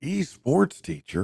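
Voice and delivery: high, slow disbelief; incredulous. Real, not acted. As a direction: stretch it out in disbelief. Repeats the odd job title.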